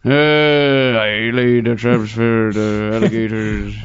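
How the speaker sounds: slow, mock Cajun accent that drifts into an old sea captain; hammed-up Louisiana trapper, slowed right down; poor Cajun accent turning into Quint from Jaws. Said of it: "My poor Cajun accent just turns into Quint".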